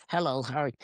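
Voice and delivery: puppet talking through a stuffed-up nose; blocked nose turtle voice. Pretend. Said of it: "And he's like".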